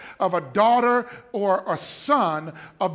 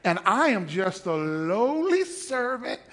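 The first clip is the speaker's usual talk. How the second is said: mock humble. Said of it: "You better quit talking like that".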